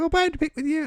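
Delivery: put-on woman's voice, very high-pitched. Retelling what she said, in an impression of a woman. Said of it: "This is my impression of all women".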